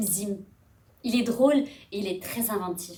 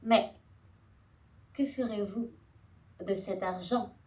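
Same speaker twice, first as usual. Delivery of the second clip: queenly address; 2 semitones lower than usual. Acted. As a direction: address the crowd like a stately queen. Voices Antropia addressing the men.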